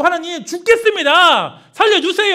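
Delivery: high, loud begging cry; desperate plea. Pretend. Israelites in slavery crying to God, loud desperate begging. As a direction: cry out as if dying.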